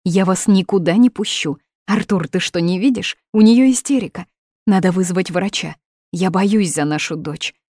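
loud, pleading and worried; mother blocking the door, loud and anxious; alarmed mother. Acted. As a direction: raise the voice to stop her daughter.

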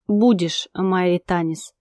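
ordinary delivery

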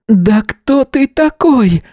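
the hostess demands who he is, high and indignant. A narrator's reading. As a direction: challenge him, high and bristling. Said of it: "женщине не понравилось подобное обращение".

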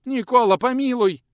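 high, loud begging; boy squealing for mercy; pleading squeal. Acted. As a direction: beg for mercy. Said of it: "попытался отнекиваться тот".

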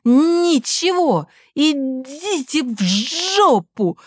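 очень высоко, громко, заикаясь; выкрикни сквозь заикание; крик. A narrator's reading. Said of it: "продолжал кричать он". (сын кричит на мать, очень высоко)

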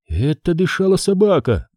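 high, almost hysterical exclaim; Jenny crying out in hysterical relief; near hysterical. Acted. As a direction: blurt it out in relieved panic. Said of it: "громко, почти истерично воскликнула Дженни".

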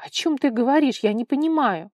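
irritated outburst. A narrator's reading. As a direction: throw it back at her in frustration. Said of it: "Вара раздражённо бросила".

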